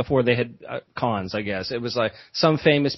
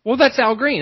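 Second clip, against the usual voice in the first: impression of a singer; 9 semitones higher, 5 dB louder than usual. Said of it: "I was doing my Al Green impression".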